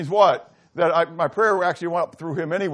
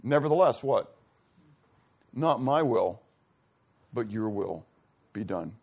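anguished plea; 2 semitones higher than usual. Retold or imitated. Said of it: "he cries out to the Father".

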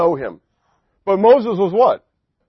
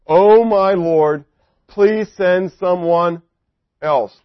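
pleading Moses; 3 dB louder, much slower than usual. Acted. Moses begs God.

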